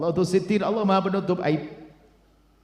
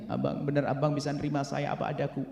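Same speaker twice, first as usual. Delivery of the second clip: soft anxious wife; 3 semitones lower, 8 dB quieter than usual. Acted. Wife asking husband for acceptance.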